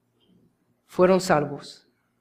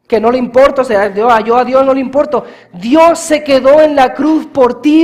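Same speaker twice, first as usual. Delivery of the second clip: louder and higher, sustained fiery preaching; full-force preaching; 3 semitones higher, 7 dB louder, faster than usual. Acted. Preacher crying out to the congregation about the cross, fiery and loud. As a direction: drive the message home at the top of the voice.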